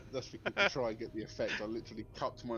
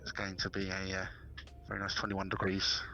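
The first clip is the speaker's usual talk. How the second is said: captain's cabin announcement through cupped hand; muffled pilot announcement, breathy; pilot over the radio. Pretend.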